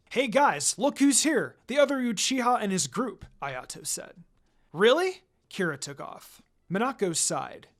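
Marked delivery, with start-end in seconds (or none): 0.1-3.3 raised, eager announcing voice; excited call. Acted. Ayato announcing the visitors to friends, excited. 4.7-5.2 high, loud eager surprise; surprised. Acted. Kira hearing the visitors have arrived, surprised.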